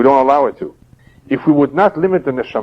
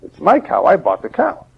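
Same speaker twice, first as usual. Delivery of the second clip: higher, insistent mock protest; indignant neighbor; 8 semitones higher than usual. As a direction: play the neighbor claiming the cow, higher. Neighbors quarrel over the cow.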